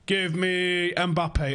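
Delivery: slow, drawn-out demand; mock demand. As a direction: stretch it out like a big ask. Acting out Woodward's demand.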